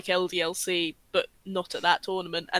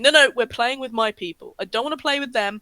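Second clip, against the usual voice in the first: put-on raised, childish diva protest; petulant diva; 4 semitones higher, 4 dB louder, faster than usual. Podcaster imitating a pro player refusing new teammates, petulant diva. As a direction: play a diva refusing to share. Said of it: "like, diva going".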